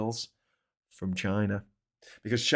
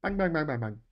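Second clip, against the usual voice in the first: mock gunfire; 4 semitones higher than usual. Mimes firing a gun childishly.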